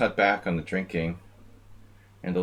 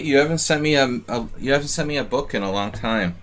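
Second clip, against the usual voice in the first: loud call-out; 7 semitones higher, 7 dB louder than usual. Real, not acted. Calling out to a chat friend.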